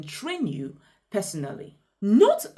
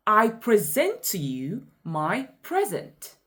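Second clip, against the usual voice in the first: "I preSENT to you my PREsent"; verb-noun stress contrast. Shown as a demonstration. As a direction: preSENT for the first "present", PREsent for the last. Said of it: "In this sentence, I present".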